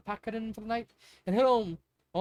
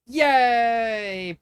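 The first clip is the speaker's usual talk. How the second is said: high, loud happy yay; cheer; 5 semitones higher, 10 dB louder than usual. A narrator's reading. Pearl cheering when her cousin gives in, loud happy yay. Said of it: "Pearl cheered".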